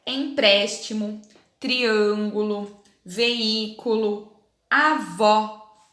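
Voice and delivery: words read slowly and clearly; slow word list reading. Shown as a demonstration. Teacher reading the exercise words to children. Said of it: "leia as palavras do quadro".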